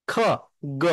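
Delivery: খ breathy and voiceless, গ voiced; voiceless and voiced pair. Shown as a demonstration. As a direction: contrast খ and গ. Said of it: "তারপর হচ্ছে খ".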